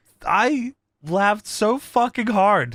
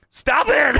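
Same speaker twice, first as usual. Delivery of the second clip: higher, exasperated mock outburst; imitating pissed wrestler; 6 semitones higher than usual. Podcaster imitating wrestler fed up with the chants, mock anger. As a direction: act out a wrestler losing patience. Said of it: "Kurt is getting pissed".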